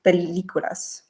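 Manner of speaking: halting Spanish with an English-speaker's accent; Spanish in a self-confessed terrible accent; non-native Spanish accent. Real, not acted. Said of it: "Sorry, my accent is terrible".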